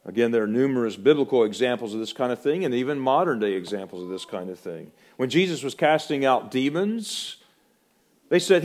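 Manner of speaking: ordinary delivery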